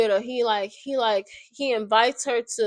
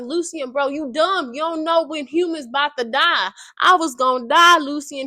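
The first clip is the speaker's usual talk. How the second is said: exasperated retort; 4 semitones higher, 4 dB louder than usual. Retold or imitated. She argues back at Lucian.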